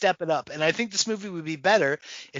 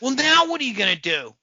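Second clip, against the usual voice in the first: higher, louder stagey challenge; mock movie delivery; 6 semitones higher, 4 dB louder than usual. Ridiculing unnatural film dialogue, louder mock delivery. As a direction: punch out the reworded line mockingly. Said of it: "who says that to anybody?".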